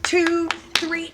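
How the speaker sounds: high, loud, bouncy chant of up up up; coach's rally cry, high and loud; loud encouraging call. Shown as a demonstration. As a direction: cheer the kid back to their feet. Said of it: "you say".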